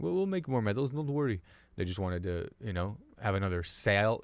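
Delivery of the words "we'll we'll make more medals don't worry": softly spoken mock French accent; lightly put-on French voice, soothing the customer. Medal manufacturer promising more medals, light French accent. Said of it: "This is a French accent".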